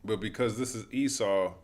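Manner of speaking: angry rant. Real, not acted. Angry rant over video.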